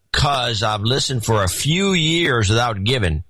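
lightly put-on Southern accent; Southern drunk voice. Reading a donor's note on request, lightly drunk Southern accent. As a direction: read it with a hint of tipsy Southern slur. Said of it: "Southern drunk voice".

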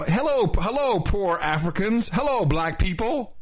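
lightly voiced, condescending greeting to the crowd; a hint of a patronizing president; mocking Obama's address to Africans, barely changed voice. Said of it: "He's gone over there and said".

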